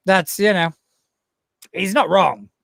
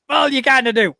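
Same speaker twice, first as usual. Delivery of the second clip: laughing; 7 semitones higher, 3 dB louder than usual. Retold or imitated. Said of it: "It's like".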